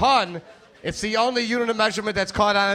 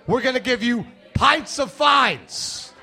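stern cop; 6 semitones higher, slower than usual. Acted. A cop confronting him.

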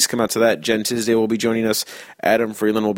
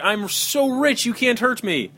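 high, slow smug rich-guy voice; 11 semitones higher than usual. Shown as a demonstration. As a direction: untouchable and carefree. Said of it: "No, it's like".

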